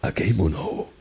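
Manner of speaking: "agemono" with a stretched, leaning middle; "agemono" swung unevenly, English-style; wrong swung rhythm. Shown as a demonstration. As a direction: lean on the middle of "agemono" instead of even beats. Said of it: "It's not agemono".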